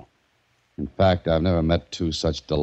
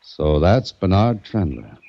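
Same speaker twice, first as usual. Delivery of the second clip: doubtful; slower than usual. Acted. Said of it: "Why do you say it like that?".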